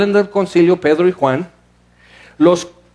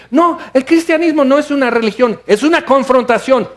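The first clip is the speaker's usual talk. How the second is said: much higher, ringing "no es una religión"; bold declaration; 6 semitones higher than usual. Pretend. Preacher tells believers how to say it, high and bold. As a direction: proclaim it like a challenge. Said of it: "si quieres decir".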